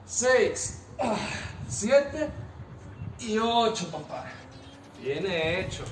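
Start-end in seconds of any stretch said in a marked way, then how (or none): 0.0-3.9 barking gym coach. Real, not acted. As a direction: bark out each rep, laughing near the end. Coach counting reps aloud.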